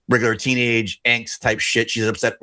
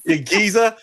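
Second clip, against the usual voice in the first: squeaky mock Cockney, pitched way up; mock Cockney accent; 9 semitones higher than usual. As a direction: play a cartoon London geezer yelling in a Cockney accent. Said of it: "She screams in British".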